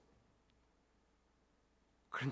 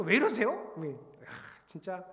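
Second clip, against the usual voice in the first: retold complaint; slower than usual. Preacher replays reaction whenever blocked, mock-exasperated. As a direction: whine at God in imitation of past self. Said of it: "또 뭐가 막히면".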